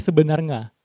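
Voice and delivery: "sebenarnya" ending in "-nga" for "-nya"; unclear Acehnese pronunciation. Shown as a demonstration. Trainer quoting a friend, "sebenarnya" slurred to end in "-nga". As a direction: say "sebenarnya" with ng replacing the ny. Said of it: "pengucapannya itu kurang jelas".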